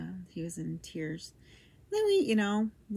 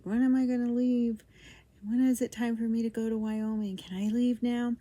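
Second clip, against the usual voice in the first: higher, louder retold pleading; mock-pestering questions, pitched up and pushed; impatient pleading; 5 semitones higher, 6 dB louder than usual. Wife retelling her phone calls to her husband, impatient pleading.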